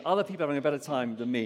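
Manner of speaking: fast, hurried thought rattled off; rushed inner thought. Shown as a demonstration. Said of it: "where you think".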